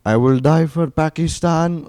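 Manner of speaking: put-on high, loud accented kid's cry; screaming little kid. Pakistani little kid in a war video, imitated high scream. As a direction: imitate a child yelling a war slogan. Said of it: "little kids just screaming".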